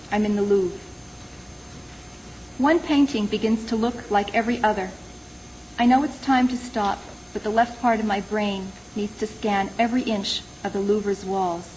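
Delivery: measured recital, letting each line settle; poem reading. Acted. Poet reads a poem set in the Louvre to listeners, measured recital. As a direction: read it as verse, with pauses between lines.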